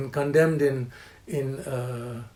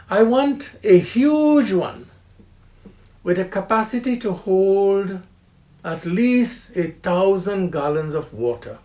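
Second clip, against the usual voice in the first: eager demand; 3 semitones higher, 5 dB louder than usual. Retold or imitated. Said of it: "And I said, you know".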